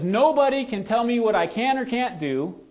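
put-on defiant kid. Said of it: "the basketball guy says".

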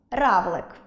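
«Равлик» said by syllables; «Равлик» split into two syllables, рав-лик; syllable demo. Shown as a demonstration. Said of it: "Два склади". («Равлик» по складах)

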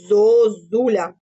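slow, syllables stretched; slow dictation. Shown as a demonstration. Teacher dictating to first graders. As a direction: draw out «Зозуля» zo-zu-lia. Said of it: "протягуючи кожний склад".

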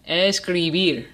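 escribir said slowly, weight on BIR; stress on last syllable. Shown as a demonstration. Teacher repeating a word for students, escribir slowly with last syllable stressed. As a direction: draw out escribir and land on the final BIR. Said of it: "the emphasis is on the last".

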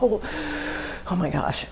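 mock pained groan. Imitating withdrawal pain.

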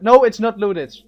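excited voice breaking; voice cracking. Real, not acted. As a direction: voice cracks up high. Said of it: "Voice crack, by the way".

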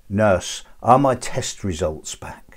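slow, deliberate punchline; imitating a patient carefully making himself understood; unmasked patient. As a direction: spell it out slowly for the nurse. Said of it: "pulls the ventilator mask off of his face".

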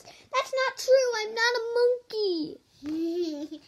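indignant protest. Acted. Reader denying being a monkey, mock indignant. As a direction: insist it's not true, hammed-up.

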